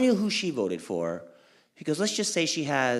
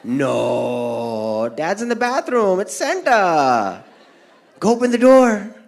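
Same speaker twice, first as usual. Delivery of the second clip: mom's voice; 3 semitones higher, 7 dB louder, slower than usual. Retold or imitated. Mom insists it's Santa.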